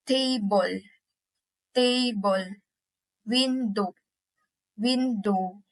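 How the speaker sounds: "table" and "window" with weight on TA and WIN; first-syllable stress. Shown as a demonstration. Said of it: "The emphasis is on the first syllable".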